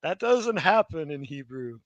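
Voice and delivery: emphatic mock protest, stretched out; imitated objection. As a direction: deliver a loud, slow, insistent correction. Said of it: "He says".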